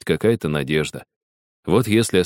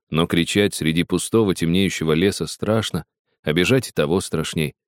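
ordinary delivery, nothing marked

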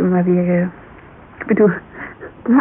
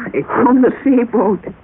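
laughing through tears; 4 semitones higher than usual. Acted.

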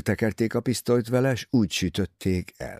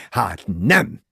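a sudden louder outburst; exclaiming; 6 dB louder than usual. A narrator's reading. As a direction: burst out after banging the table. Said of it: "kiáltotta". (hangos felkiáltás)

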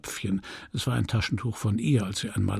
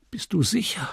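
whispered, anxious question; hushed worried whisper; 6 semitones higher than usual. Acted. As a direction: whisper it so no one hears. Hushed questions before their flight.

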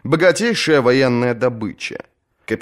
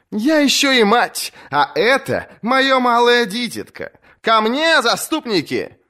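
rallying call. Acted. Asha calls her champions forward, high rallying voice. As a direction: raise the dagger and call your men.

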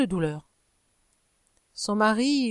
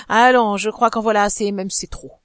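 louder, scornful snicker; sneering laugh; 5 dB louder than usual. Acted. Husband mocking his wife's oath, sneering snicker. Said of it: "en ricanant".

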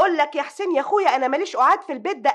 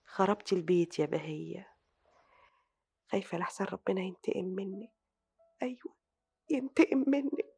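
soft, low voice, partly whispered; guilty murmur to herself; 3 semitones lower, 9 dB quieter than usual. Acted. Sister alone, blaming herself for the wreck: hushed. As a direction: brood quietly over what she has done.

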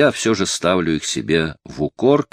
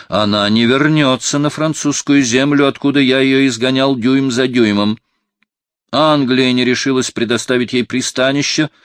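loud, higher furious outburst; angry cardinal; 5 semitones higher, 4 dB louder than usual. A narrator's reading. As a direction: hurl each word at him in rage. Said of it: "ещё пылающий гневом".

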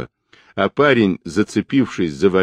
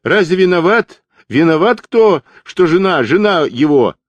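much higher, louder piercing yell; пронзительный крик; 10 semitones higher, 5 dB louder than usual. A narrator's reading. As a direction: shriek it to the gathering crowd. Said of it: "он пронзительно закричал". (парень пронзительно кричит собравшемуся народу)

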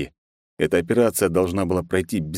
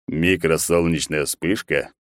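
exhaled; slower than usual. Acted. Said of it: "выдохнул он".

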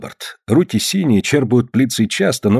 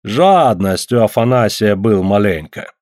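mocking reproach. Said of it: "попрекнул с усмешкой".

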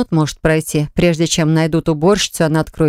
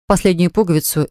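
plain reading voice

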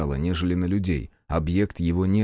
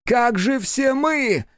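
very high, very slow strained wail; like a child in hysterics; a high, drawn-out breaking plea; heartrending cry; much slower than usual. A narrator's reading. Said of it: "голос был такой надрывный".

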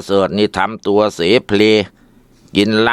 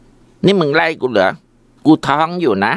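much higher, slow indignant cry; outraged; 6 semitones higher, slower than usual. Acted. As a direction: hurl it back in disbelief. Wife outraged in quarrel.

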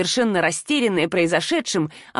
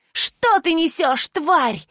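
higher, slow venomous hiss; mild hissed outrage; 8 semitones higher, much slower than usual. Acted. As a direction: spit the insult at her. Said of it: "зашипела Талана".

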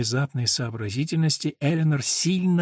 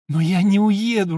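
laughing; 7 semitones higher, 6 dB louder than usual. Acted. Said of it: "рассмеялась она вслух".

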